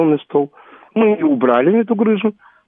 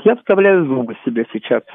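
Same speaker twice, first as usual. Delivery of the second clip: lisping. Real, not acted. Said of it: "Поэтому немножко буду шепелявить".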